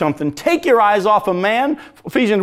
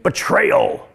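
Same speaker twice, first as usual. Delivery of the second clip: whispered; 14 semitones higher than usual. Real, not acted. Whispered word.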